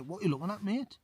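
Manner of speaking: squaring up to someone staring at you; confrontational. Pretend. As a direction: pretend challenge to a staring stranger.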